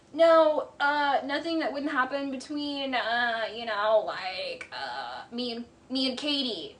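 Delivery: slow, halting fake denial with changing inflection; mocking the confessional lie. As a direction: drag it out like a squirming liar. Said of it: "literally, the inflection changes".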